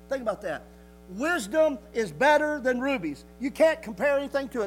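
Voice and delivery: emphatic preaching. Real, not acted. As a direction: proclaim the verse to the congregation. Preacher declaims scripture emphatically.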